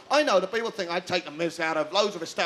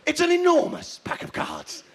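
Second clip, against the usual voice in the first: high-pitched, full-voiced amazement; big mock wonder; 7 semitones higher than usual. Comic overselling the show's concept, mock wonder. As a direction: jump up high on "enormous".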